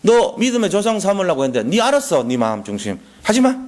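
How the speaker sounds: a divine brush-off, pitch jumping up on 하지 마; God dismissing him. Retold or imitated. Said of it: "이런다니까".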